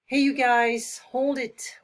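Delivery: loud call to halt the group; loud hey, you guys, hold it; urgent call. Shown as a demonstration. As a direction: stop them in their tracks. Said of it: "urgent situation".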